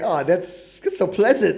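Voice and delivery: a hint of Southern charm, Southern accent; mock Southern drawl. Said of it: "So it's like".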